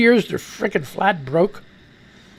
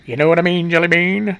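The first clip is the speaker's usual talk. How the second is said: corrected lower voice; 2 semitones lower than usual. Real, not acted. Host correcting an excited voice, corrected lower voice. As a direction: pitch brought back down. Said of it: "And then I gotta correct myself".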